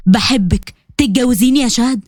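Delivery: low male voice for the proposal; a hint of a man proposing; lightly voiced Qasim. Qasim proposing to Shahd before everyone, low and earnest.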